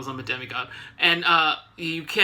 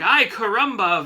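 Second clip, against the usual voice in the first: lightly voiced cartoon catchphrase, a bit raised; El Barto-esque exclamation; 3 semitones higher, 4 dB louder than usual. Henchman about to get knocked out, lightly El Barto-esque. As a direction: toss out a mild El Barto exclamation. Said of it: "very El Barto-esque".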